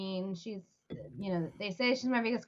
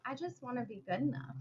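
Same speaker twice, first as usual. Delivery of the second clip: small voice; 9 dB quieter, faster than usual. Retold or imitated. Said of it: "Chloe's like".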